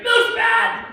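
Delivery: high, loud mock yell of disgust; retold shout. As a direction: yell it like the milk just betrayed you. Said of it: "He's like".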